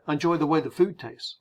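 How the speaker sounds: quick, casual American run-through; brisk, unfussy delivery; speeding through. Shown as a demonstration. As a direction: run the phrase together lightly. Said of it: "speeding through the phrase".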